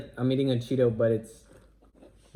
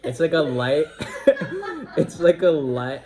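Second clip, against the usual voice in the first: laughing; 4 semitones higher, 4 dB louder, slower than usual. Real, not acted. Laughing through his description.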